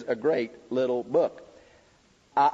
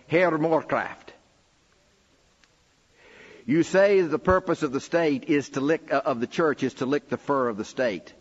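a light imitation of a thick Afrikaner accent, slow; 4 semitones higher, 3 dB louder than usual. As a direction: retell the farmer's challenge in a mild Afrikaner accent. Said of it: "with this thick Afrikaner accent".

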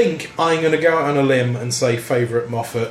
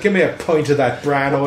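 put-on Irish accent. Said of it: "bad fucking Irish accent".

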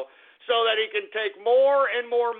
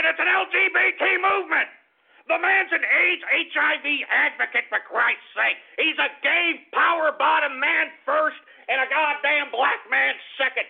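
louder, higher, fast furious ranting; angry rant; 3 semitones higher, 3 dB louder than usual. Real, not acted. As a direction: hammer the point home, fed up. Angry rant at BLM movement.

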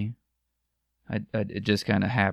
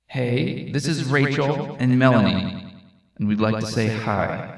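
lightly put-on voice for a listener greeting; shout-out on request. Shown as a demonstration. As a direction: say hi on someone's behalf, a little showily. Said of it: "any specific way you want me to say it".

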